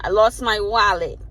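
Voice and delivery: polite request. Shown as a demonstration. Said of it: "If you came in here nice, cool, calm".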